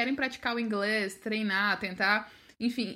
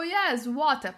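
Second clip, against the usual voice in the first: "water" as "wotah", Australian, no r; louder Australian-style "water"; Australian-style pronunciation; 3 semitones higher, 5 dB louder, much slower than usual. Retold or imitated. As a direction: echo the Australian "water", dropping the r. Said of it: "eles têm um sotaque diferente".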